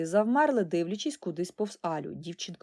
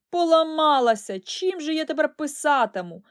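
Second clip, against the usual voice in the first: dismayed; 7 semitones higher, 6 dB louder than usual. Acted. Dismay at broken pen.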